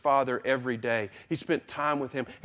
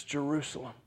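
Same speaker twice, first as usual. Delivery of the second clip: softer, grieving lament; 5 dB quieter than usual. Retold or imitated. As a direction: mourn over the city quietly. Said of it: "he says".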